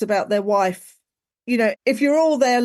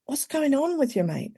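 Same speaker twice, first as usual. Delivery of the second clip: gentle check-in; 4 semitones higher, 6 dB quieter than usual. Retold or imitated. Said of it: "instead of going".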